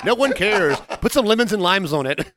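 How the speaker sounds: teasing mock reassurance. Teasing the friend who skipped deodorant, high laughing. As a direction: brush it off cheerfully with a laugh.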